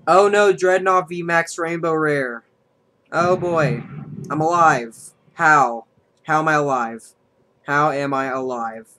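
loud, slow disbelief; stunned he survived; surprised. Real, not acted. Shocked at surviving the hit.

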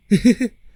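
high little giggle; a cute bashful giggle; small girlish giggle, rising at the end. Acted. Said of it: "หัวเราะคิกคัก".

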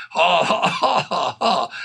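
deliberate, uneven ha-has; demonstrated forced laugh. Shown as a demonstration. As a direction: keep laughing to show the method. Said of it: "That's how you do it".

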